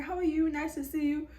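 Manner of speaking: overly sweet small talk; awkward cheer. Retold or imitated. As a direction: fake a friendly hello. Awkward polite greeting.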